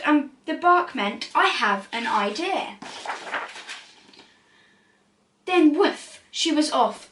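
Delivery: lively storybook read-aloud; animated rhyming picture-book narration; reading to children. A narrator's reading. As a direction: read it like bedtime story time.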